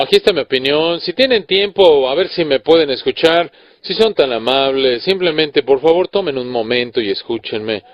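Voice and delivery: timid polite request. Pretend. Preacher mocking a timid sermon opening, meek and pleading. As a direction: hedge every phrase like a shy guest. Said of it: "Se oye así como".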